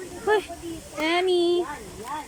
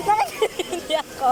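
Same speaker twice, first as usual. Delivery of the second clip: being tickled; 6 semitones higher than usual. Real, not acted.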